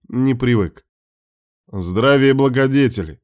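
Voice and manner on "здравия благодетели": displeased greeting. Acted. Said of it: "недовольно поприветствовал".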